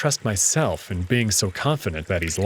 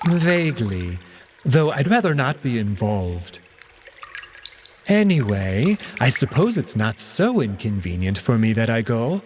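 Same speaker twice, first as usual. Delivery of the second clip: Alex, evasive cat. Acted. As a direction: brush it off airily as the cat.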